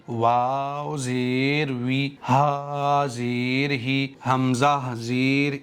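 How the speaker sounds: slow, even recitation of each letter and vowel; measured letter-by-letter recital; slow spelling drill. Shown as a demonstration. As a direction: spell each syllable slowly, like teaching children to read.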